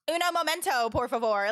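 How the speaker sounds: mimicked Southern American Spanish; imitation of an Americanized Spanish phrase; Southern-accented Spanish. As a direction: repeat her Spanish in a thick English accent. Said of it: "Spanish said in an English accent".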